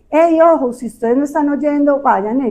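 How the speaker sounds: mock warning; warning call. Shown as a demonstration. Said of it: "para decirles".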